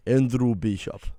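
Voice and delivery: lightly put-on Russian accent; mock Russian accent. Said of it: "Are you Russian?".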